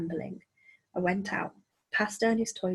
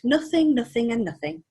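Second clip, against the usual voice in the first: squeaky; 4 semitones higher, 5 dB louder than usual. Acted. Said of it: "he squeaked".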